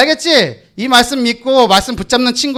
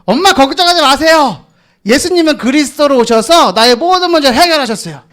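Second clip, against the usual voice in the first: model reply to mum; 4 semitones higher than usual. Pretend. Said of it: "그러면".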